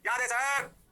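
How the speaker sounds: loud mock chorus of students; hammed-up students answering sir; class reply. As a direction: shout it back like the whole class. Teacher voices class in unison.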